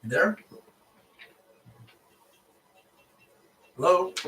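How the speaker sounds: loud, high, rising hello; shouting into a phone. Real, not acted. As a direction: call out, trying to get an answer. Nobody answers the phone call.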